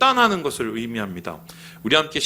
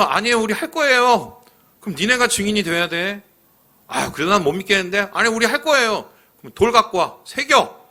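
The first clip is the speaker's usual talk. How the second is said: higher, back-and-forth mock quarrel; 주고받는 말다툼을 높여서 연기; people and Joshua arguing; 5 semitones higher than usual. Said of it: "세 번을 이렇게 했어요". (백성과 여호수아가 세 번 주고받는 높은 목소리의 다툼)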